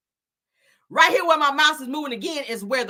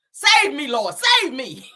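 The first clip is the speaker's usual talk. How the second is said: mock plea; 3 semitones higher, 4 dB louder, slower than usual. Mock pleading to the Lord.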